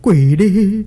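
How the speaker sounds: panicked urging. A narrator's reading. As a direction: urgently scold your wife in a panic. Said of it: "Ông Kiệm cuống quá ấn đầu vợ xuống mà nói".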